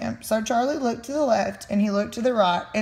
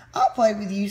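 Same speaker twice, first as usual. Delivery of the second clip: smiling. Acted. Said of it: "with a wink and a smile".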